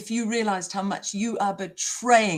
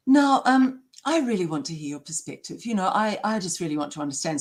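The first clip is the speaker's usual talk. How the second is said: mock insincere doctor; 2 semitones lower than usual. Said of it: "doing the most insincere talk like this".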